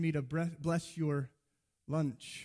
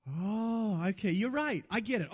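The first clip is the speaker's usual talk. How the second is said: higher acted concession; sheepish agreement; 4 semitones higher than usual. Friend admits you are right, acted sheepish agreement.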